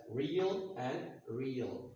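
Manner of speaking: both "real" words as REE-uhl; native-speaker pronunciation. Shown as a demonstration. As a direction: identical ee-uh glide in each "real". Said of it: "spoken by the native speakers the same way".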